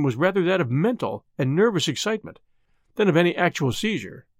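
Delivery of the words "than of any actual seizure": ordinary delivery, nothing marked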